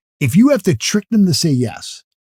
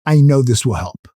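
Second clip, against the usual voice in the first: lower, assured sales tone; absolute certainty; 5 semitones lower than usual. Shown as a demonstration. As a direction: state it with total conviction. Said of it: "Absolute certainty. That tonality says".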